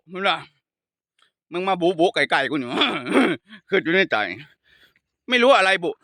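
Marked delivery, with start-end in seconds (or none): 5.3-5.9 imitated Khon Kaen Thai-Lao accent. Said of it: "แต่มันก็เป็นภาษาอย่างนี้จริงๆนะ". (เลียนสำเนียงขอนแก่น)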